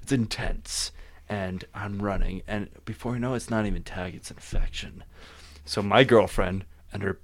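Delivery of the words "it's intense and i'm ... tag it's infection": hushed dramatic. Pretend. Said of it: "I'm gonna talk like this 'cause I enjoy it".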